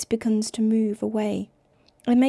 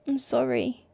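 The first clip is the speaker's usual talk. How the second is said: croaking; 2 semitones higher than usual. Acted. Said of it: "he croaks".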